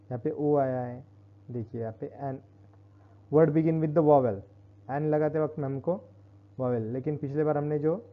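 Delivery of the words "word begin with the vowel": slow, louder, word by word; slow dictation. Shown as a demonstration. Teacher dictating the rule to students, slowly. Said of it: "rule dictated slowly".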